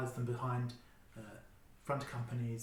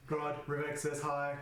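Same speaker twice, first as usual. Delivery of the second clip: slow, even droid monotone; robotic voice; 2 semitones higher, slower than usual. Acted. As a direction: speak like a metallic cyborg. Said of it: "In a robotic voice".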